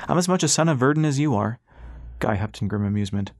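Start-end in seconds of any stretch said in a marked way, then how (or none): 0.1-1.6 indignant, raised-pitch protest; flaring temper. A narrator's reading. Ras defends his loyalty to Guy, higher indignant insistence. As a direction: assert it hotly, pitch up. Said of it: "Ras felt his temper flare".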